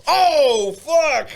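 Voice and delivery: shocked oh fuck. Retold or imitated. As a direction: blurt it out in sudden horror. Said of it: "And I was like".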